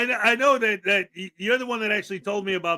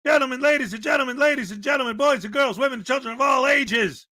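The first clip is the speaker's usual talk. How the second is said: announcer voice; 2 semitones higher than usual. Pretend. Announcing the Cupcake Happy Dance.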